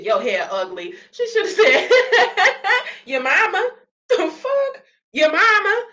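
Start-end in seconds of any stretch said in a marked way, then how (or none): 1.1-5.8 squealing high through laughter; can barely get the words out for laughing; laughing hard. Real, not acted. Cracking up at the video, high and laughing. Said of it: "I laughed so hard at it".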